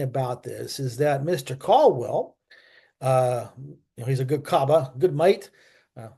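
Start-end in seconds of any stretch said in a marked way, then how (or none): 4.1-5.5 put-on Australian accent. Praising an Australian fighter ace in a quick mock Australian accent. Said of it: "sorry for that accent".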